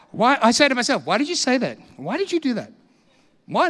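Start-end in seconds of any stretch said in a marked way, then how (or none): 1.0-3.7 higher-pitched mock scolding; telling himself off. Preacher fighting with himself, mock scolding. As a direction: scold yourself with exaggerated questioning. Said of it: "I tell myself off".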